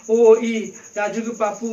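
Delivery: loud wailing call to a dead husband; wailing cry. Shown as a demonstration. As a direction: cry out his name in grief. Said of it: "औरत है अपने husband के लिए रो रही है".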